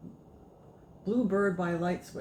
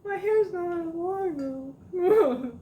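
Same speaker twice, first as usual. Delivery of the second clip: mock crying; 14 semitones higher, 9 dB louder, much slower than usual. Mock lament about lost hair.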